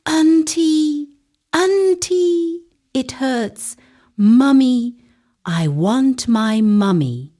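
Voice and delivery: put-on high, loud child's panic cry; a little girl crying out in pain for her mother; child screaming. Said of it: "Chioma screamed".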